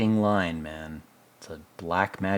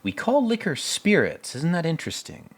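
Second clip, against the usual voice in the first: mock pompous sage. Rust musing over old whiskey, mildly pompous. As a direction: savor the words like a smug scholar. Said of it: "It's like".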